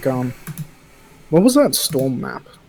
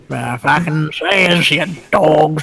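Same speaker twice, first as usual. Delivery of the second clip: lightly put-on Aboriginal Australian accent; a hint of Aboriginal Australian accent, slower; 2 semitones higher, 5 dB louder, slower than usual. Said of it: "do the outro in your Aboriginal voice".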